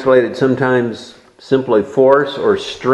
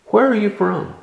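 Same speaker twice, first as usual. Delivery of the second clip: Pilate asking; 9 semitones higher than usual. Acted. Pilate questioning Jesus, voiced.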